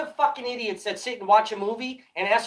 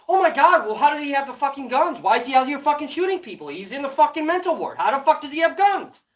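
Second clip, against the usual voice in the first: higher, fast mocking voice of the critics; mocking whine; 3 semitones higher, faster than usual. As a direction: parrot them with scorn. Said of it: "You guys wanna say".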